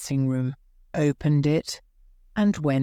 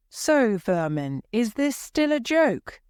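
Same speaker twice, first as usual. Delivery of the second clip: annoyed director, the question shooting up high; mild shout ending in a sharp high rise; angry shout; 7 semitones higher than usual. Acted. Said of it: "Monsieur Armand shouted".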